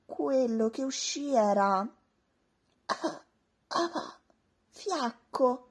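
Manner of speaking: slow, faint failed roar; weak feeble roar. A narrator's reading. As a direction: let the roar fizzle out. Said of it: "provò a sbraitare".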